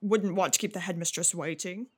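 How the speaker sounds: lightly voiced, hesitant father; a hint of an awkward dad fumbling for words; flustered father. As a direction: stammer and falter, unsure what to say. Game master voices confused father.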